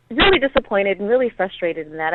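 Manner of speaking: usual speaking voice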